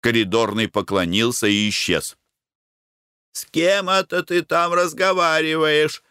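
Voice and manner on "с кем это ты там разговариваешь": drowsy wife calling, pitched well higher; just woken, call out from the next room; sleepy wife. A narrator's reading. Wife calls from the next room, sleepy and higher. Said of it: "заспанный голос Глафиры Семёновны".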